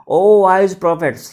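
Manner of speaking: a loud, drawn-out address; calling out. Acted. Boy addresses the astrologers.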